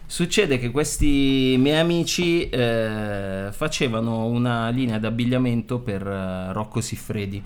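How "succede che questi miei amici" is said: restarting with a laugh; slow, amused restart. Real, not acted. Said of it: "Non ha bevuto un sorsino?".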